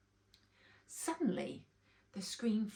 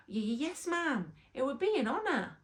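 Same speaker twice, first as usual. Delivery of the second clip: stammered honour; 5 semitones higher than usual. A narrator's reading. Bobby stammers to the queen.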